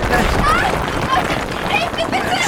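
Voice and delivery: desperate cry. Acted. Hanging from a ledge.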